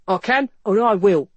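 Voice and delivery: loud, forceful constable's retort; indignant officer's voice; outraged constable. A narrator's reading. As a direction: lay down the law, loudly. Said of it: "his face flushed from outrage".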